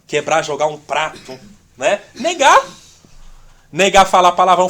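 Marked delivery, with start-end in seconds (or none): 2.1-4.7 louder exhortation, hammering each word; a preacher hammering home what to deny; preaching emphasis. Acted. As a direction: drive the word home to the church.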